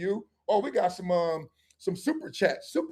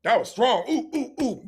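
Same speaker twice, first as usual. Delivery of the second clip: high "woo" and "ooh" after a strong shot; imitating a player reeling from a strong shot; shot aftermath; 6 semitones higher, 3 dB louder than usual. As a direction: gasp through the burn of the liquor. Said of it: "You like".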